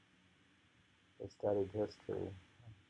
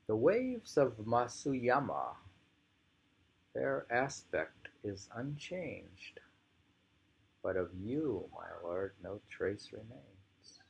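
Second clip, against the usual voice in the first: slow, hushed recital with a whispered second line; poem reading; 2 semitones higher, slower than usual. Acted. Reading the poem aloud to a listener, slow and hushed. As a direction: let each line of the verse hang.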